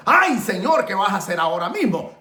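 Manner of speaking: mock plea with a high, loud start; acted-out cry to heaven; imitated desperate cry. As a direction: wail the opening, then settle. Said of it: "volar gritos al cielo diciendo".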